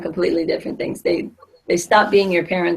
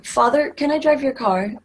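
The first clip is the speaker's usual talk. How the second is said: higher-pitched, overly proper polite question; mock formal request; 6 semitones higher than usual. Child asking father for the car, mock formal. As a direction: put on formal manners to ask a favor. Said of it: "That sounds a little, a little formal".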